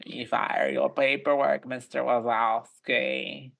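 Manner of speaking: slow, drawling grumpy clerk; a hint of a bored old clerk; Roz impression. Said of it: "like Roz from Monsters, Inc".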